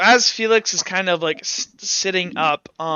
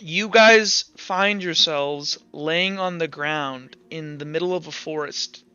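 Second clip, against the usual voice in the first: scene setting. Acted. Game master opening the scene to players, slow and hushed. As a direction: draw the players into the forest slowly.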